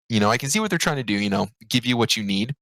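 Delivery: talking through hiccups. Real, not acted. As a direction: hiccups breaking the words. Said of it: "Excuse me, I have the hiccups".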